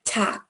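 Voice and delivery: 「ta」 said short and clipped, one syllable; pronounced ta. Shown as a demonstration. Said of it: "this first word is pronounced as".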